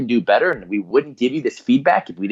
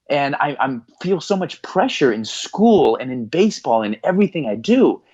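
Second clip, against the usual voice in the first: higher-pitched, imitated upset son; tearful confession; 4 semitones higher than usual. Crying son confessing pressure to his parents, imitated emotional outpouring. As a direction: pour it out as a retold tearful plea, easing off. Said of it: "just starts crying. He goes".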